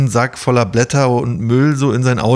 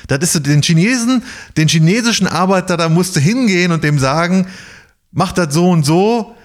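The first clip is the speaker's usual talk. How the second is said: Gerd ranting; 6 semitones higher than usual. Retold or imitated. Imitating Gerd's rant about workers.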